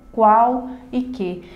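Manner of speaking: ordinary talk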